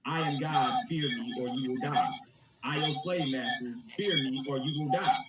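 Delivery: menacing slave master god; lightly voiced tyrant god; cold rasping evil emperor. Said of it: "the God of the Bible is a slave master".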